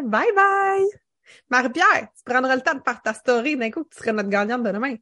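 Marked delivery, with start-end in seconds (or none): 0.0-0.9 au revoir aigu. Real, not acted. Au revoir chanté.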